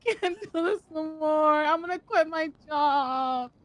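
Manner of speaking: slow, wailing fake sob; mock crying. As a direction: beg through fake tears. Begging not to lose job.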